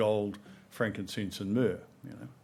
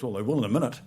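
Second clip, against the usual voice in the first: laughing punchline; 4 dB louder, faster than usual. Real, not acted. Speaker retells the girl's comeback, laughing as he says it.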